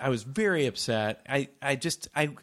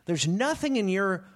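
slow emphatic anger. Retold or imitated. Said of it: "I was just getting so angry".

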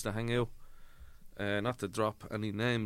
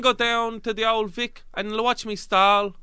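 high, loud, slow mock Cockney; over-enunciate in a hammed-up East End accent; 11 semitones higher, 8 dB louder than usual. Shown as a demonstration. Actor retrying after notes on enunciation, loud drawn-out Cockney. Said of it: "enunciation, maybe".

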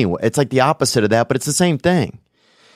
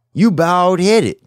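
mock sing-song; 8 semitones higher, 4 dB louder, much slower than usual. Mock chant, high and slow.

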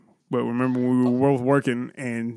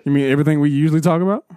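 repeated louder and quicker so it's heard; louder, faster repeat; 3 dB louder, faster than usual. Real, not acted. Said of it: "What's that?".

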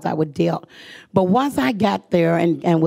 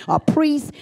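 incredulous; 8 semitones higher than usual. Retold or imitated. Retold disbelief.

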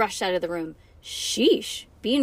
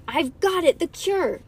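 put-on raised-pitch eager kid; excited announcement; 8 semitones higher, 4 dB louder, slower than usual. A narrator's reading. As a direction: burst in with big news. Ivy charges in with news.

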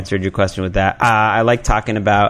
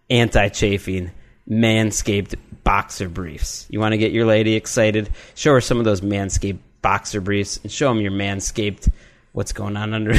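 upbeat sponsor ad read. Acted. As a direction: sell it like a podcast ad. Host reads sponsor ad copy.

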